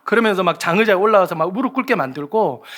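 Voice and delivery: ordinary delivery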